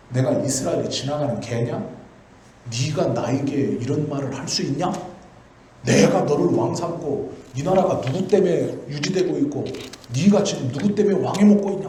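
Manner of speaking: a general half-acting his challenge to the king, rising at the end; defiant talking back. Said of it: "막 이렇게 대들어".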